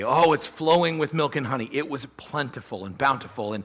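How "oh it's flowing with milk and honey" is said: a bright, lifted "Oh, it's flowing with milk and honey"; mock gushing quote. Shown as a demonstration. Preacher echoing what the Israelites used to say, mock gushing. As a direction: sell the old saying with mild mock delight. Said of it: "that was what they used to say".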